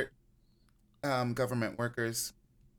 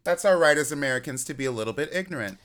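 put-on Australian accent; 3 semitones higher, 4 dB louder, much faster than usual. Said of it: "an Australian accent".

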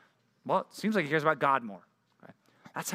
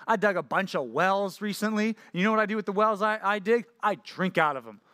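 higher-pitched, lightly mocking boast; mock bragging; 4 semitones higher than usual. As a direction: imitate a man showing off. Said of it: "you probably don't brag about that".

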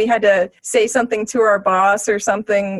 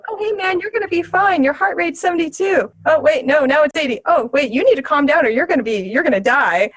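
higher mock-cheerful bedside chatter; lightly voiced tactless doctor rattling on; blundering reassurance; 3 semitones higher than usual. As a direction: play a clumsy medic trying to soothe. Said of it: "He's like".

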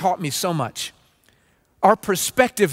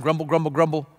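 lower, monotone mock grumble; grumbling murmur; 4 semitones lower, 3 dB quieter, faster than usual. Church member objecting to masks, in a mock grumbling murmur. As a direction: imitate someone griping under their breath. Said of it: "this low-toned murmur".

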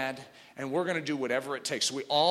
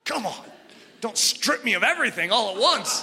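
pleading with God; 7 semitones higher, 4 dB louder than usual. Retold or imitated. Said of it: "I remember thinking".

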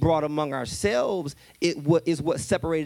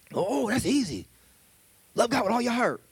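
smug Pharisee answer; 6 semitones higher than usual. Acted.

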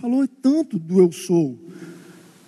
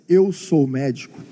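lightly voiced orthodox Jew, low and measured; a hint of an old orthodox Jew, pitched well down; imitating a Jew; 10 semitones lower than usual. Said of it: "ele nunca vai dizer assim".

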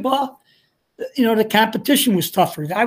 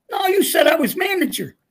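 a higher, mock-indignant shout; retold protest; 7 semitones higher than usual. Roy shouting back at his coach, higher indignant mock shout. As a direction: protest like a kid who was promised the job.

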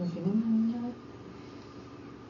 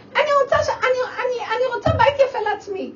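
put-on high, loud whiny little-girl voice; like a silly little girl; 14 semitones higher, 7 dB louder than usual. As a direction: whine it like a spoiled child. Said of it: "כמו ילדה קטנה מפגרת".

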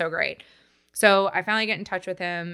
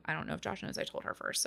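whispered aside; 2 semitones lower, 14 dB quieter than usual. Real, not acted. Confessing aside about telling mom.

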